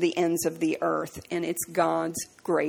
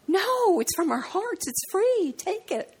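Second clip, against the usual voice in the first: retold insisting; 12 semitones higher, slower than usual.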